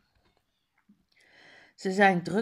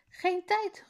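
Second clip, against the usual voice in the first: called out; 11 semitones higher than usual. Acted. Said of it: "roept Faisal".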